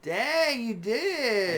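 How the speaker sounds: high, loud impressed reaction; surprised. Real, not acted. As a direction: shout it out, amazed. Reacting to fresh haircut.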